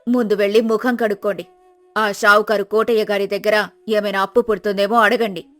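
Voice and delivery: nagging wife. Acted. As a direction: nag the lazy husband awake. Wife retorts.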